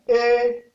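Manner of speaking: E on a level middle tone. Shown as a demonstration. Teacher showing the tones, E on mid tone. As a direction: hold E evenly, moderately high. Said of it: "ton moyen".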